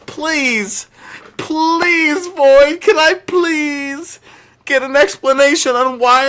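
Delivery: high, loud whining plea, stretched out slowly; hammed-up begging. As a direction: grovel theatrically, squeaking please. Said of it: "I'm just begging him".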